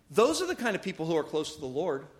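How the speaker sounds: slow and weighty, letting it sink in; slow emphatic. Shown as a demonstration. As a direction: lean on each word, slowly. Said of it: "repeats the line faster".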